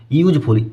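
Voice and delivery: "यूजफुल" starting on a y glide; initial y sound. Shown as a demonstration. Teacher explaining the article to students, "यूजफुल" with opening y sound. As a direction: begin "यूजफुल" with a clear "yoo", not a pure vowel. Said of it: "या आ रहा है यहाँ पर".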